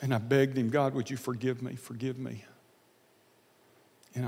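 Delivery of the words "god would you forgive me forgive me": soft, fading plea for forgiveness; pleading prayer. Retold or imitated. Praying to God in the car, a soft fading plea. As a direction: beg quietly, trailing to almost nothing.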